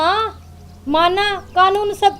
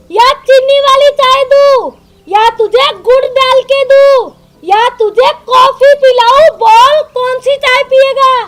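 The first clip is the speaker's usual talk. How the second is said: raised, insistent mock offers; angry sarcasm; 3 semitones higher than usual. Wife offering husband tea options, angry sarcasm. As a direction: pile up the questions in irritation. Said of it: "इतना गुस्सा क्यों हो रही है".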